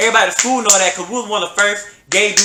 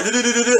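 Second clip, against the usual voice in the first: motor imitation; 5 semitones higher, faster than usual. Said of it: "Like, moving real, real fast, like a motor".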